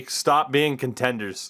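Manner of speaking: mock shout at the team, half joking. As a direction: yell it at the team in jest.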